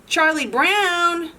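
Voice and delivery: high, slow sing-song call; teasing sing-song voice calling Charlie Brown. Acted. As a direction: lilt his name up and down to tempt him. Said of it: "calls Lucy in a sing-song voice".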